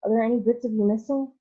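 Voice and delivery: a frightened mother pleading; anxious cry. Acted. Mother calling to her shrunken son, anxious fast cry. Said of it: "cried Missus T V".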